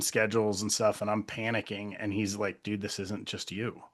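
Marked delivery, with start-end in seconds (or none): 2.6-3.8 softer, calming imitation of a partner; retold reassurance. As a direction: gently talk someone down from panic, as retold. Partner calming the speaker's panic.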